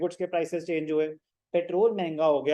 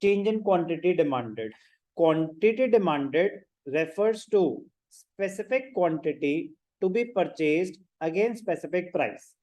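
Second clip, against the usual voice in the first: very slow, measured definition read-out; spaced-out phrases at note-taking speed; dictation; much slower than usual. Acted. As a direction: dictate it slowly for students taking notes.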